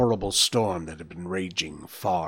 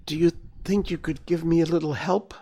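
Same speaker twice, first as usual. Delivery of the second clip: light, higher-pitched polite request; relaxed, almost gay; 6 semitones higher than usual. A narrator's reading. Wounded hare asking Bambi for help, relaxed and almost gay. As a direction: ask lightly, as if nothing were wrong. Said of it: "She spoke as if she were perfectly all right".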